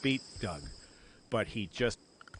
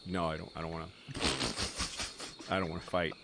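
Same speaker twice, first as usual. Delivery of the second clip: meek scared reply; 5 semitones lower, 4 dB quieter, much faster than usual. Retold or imitated. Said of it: "And I was just like".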